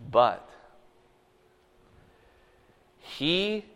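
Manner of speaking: slow, measured Bible reading; unhurried solemn reading of Isaiah; scripture reading. Acted. Reads Isaiah 53 scripture aloud.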